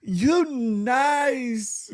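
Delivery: put-on high, drawn-out little kid thanks. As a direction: sound like a tiny grateful child. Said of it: "He said".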